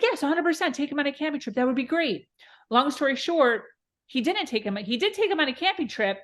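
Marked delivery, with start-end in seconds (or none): 0.0-2.3 higher, bright mock enthusiasm; eager mock yes. Mother agreeing to the son's camping trip, eagerly high. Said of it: "So I was like".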